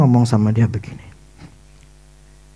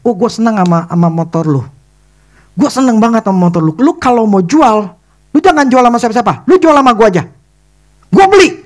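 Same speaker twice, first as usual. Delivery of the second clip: building from eager to a much higher, louder cry; eager pleading; 7 semitones higher, 3 dB louder than usual. Retold or imitated. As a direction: plead harder with each line until the buy. Friend eagerly begging to buy.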